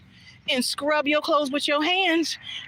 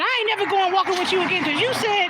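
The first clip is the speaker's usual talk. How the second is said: mock cussing out; 7 semitones higher than usual. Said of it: "they started cussing me out".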